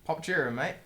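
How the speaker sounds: understated British imitation; British accent. Shown as a demonstration. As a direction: try a modest British accent. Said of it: "do a British accent for us right now".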